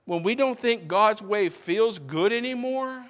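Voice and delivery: high, loud and carrying. Real, not acted. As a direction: push the phrase out forcefully, pitch held high.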